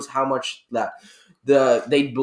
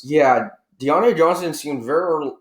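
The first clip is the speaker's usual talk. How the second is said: pen cap in mouth. Real, not acted. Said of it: "I had my pen cap in my mouth".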